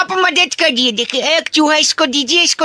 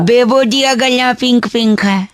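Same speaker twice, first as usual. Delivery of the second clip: rough, lower put-on throat; gravelly voice; 5 semitones lower than usual. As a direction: talk as if the throat is sore. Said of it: "मेरा गला खराब है".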